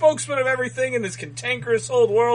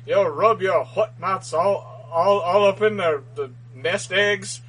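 bad Bill Clinton. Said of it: "keep going with this".

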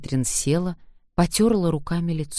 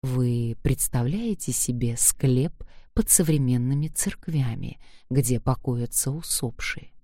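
tender, close to her ear; 2 semitones lower than usual. Acted. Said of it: "губы Лео нежно коснулись её уха".

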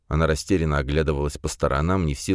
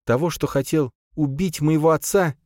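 higher, rising toward a cry; desperate outcry; 11 semitones higher than usual. A narrator's reading. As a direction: voice breaking into a desperate shout. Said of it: "Её голос сорвался на отчаянный крик".

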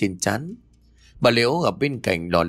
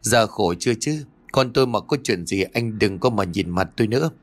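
a touch of whimpering reproach, not much raised; mildly voiced mother, half crying, half scolding; tearful, gritted voice; 2 semitones higher than usual. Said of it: "mếu máo rồi gằn giọng". (mếu máo gằn giọng nhẹ)

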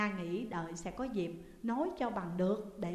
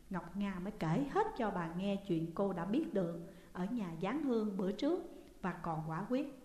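usual speaking voice

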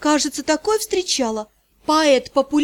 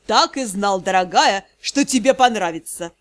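томно; 4 semitones lower than usual. Acted. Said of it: "томно прошептал".

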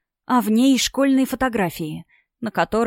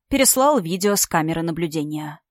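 plain reading voice

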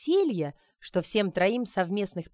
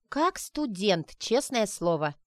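недовольное бурчание; slower than usual. Acted. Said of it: "недовольно бурчала пожилая женщина".

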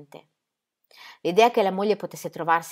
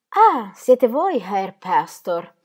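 less formal tone; 3 semitones higher, 8 dB louder, much slower than usual. A narrator's reading. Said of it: "in tono meno ufficiale".

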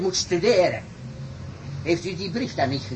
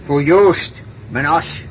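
proud call; 7 dB louder, slower than usual. Acted. Farmer names his ox.

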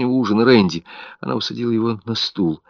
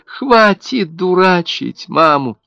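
scolding; 10 semitones higher, slower than usual. A narrator's reading. Mother scolding dead baby.

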